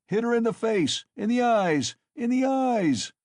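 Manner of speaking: loud, high furious shout; cried out. A narrator's reading. Mikolka urging the lads to whip the mare, shouting. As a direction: bellow it at the crowd. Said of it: "cried Mikolka".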